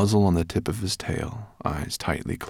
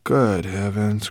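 groaning; 3 dB louder, slower than usual. Acted. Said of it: "groaned Ben".

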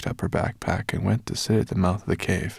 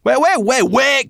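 loud, high urgent calls; crying out; 10 dB louder than usual. Acted. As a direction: call out to stop her. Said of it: "cried Sorrel".

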